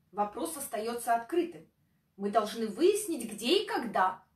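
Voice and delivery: ordinary talk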